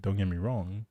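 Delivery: usual speaking voice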